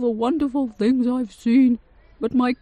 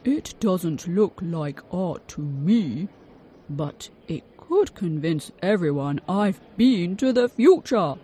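excited cry; 6 dB louder than usual. A narrator's reading. Inventor grabbing the painting, building to a loud cry. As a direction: build up to triumphant. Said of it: "Mister Logan cried".

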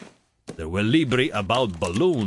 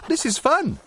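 put-on delighted girl. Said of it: "said Zoe".

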